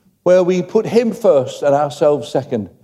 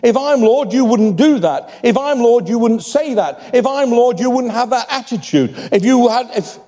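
gentle Jesus; 6 semitones higher than usual. Acted. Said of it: "Jesus just gently says".

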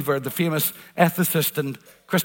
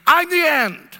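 higher, taunting, gloating voice; voice of death; 6 semitones higher, 4 dB louder than usual. Acted. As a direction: speak as death mocking the listener. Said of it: "the lie that death throws at you".

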